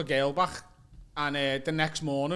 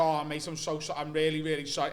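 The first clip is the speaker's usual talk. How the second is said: lower, subdued apology; apologetic; 3 semitones lower, 4 dB quieter than usual. Retold or imitated. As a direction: apologise meekly under a telling-off. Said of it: "trying to interrupt him to apologise".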